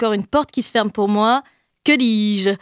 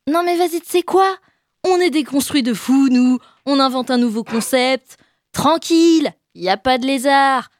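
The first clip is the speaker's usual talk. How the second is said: mock casual guy. Mocking men's bargaining lines.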